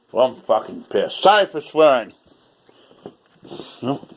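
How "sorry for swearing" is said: loud apology. Shown as a demonstration.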